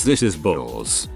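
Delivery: slow, low, groggy mumble; like just waking from anesthesia; dazed. Retold or imitated.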